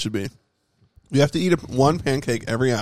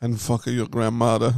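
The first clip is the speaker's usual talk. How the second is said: fake Austrian accent; 4 dB louder than usual. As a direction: keep up the joke Austrian accent. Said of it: "That man's from Austria".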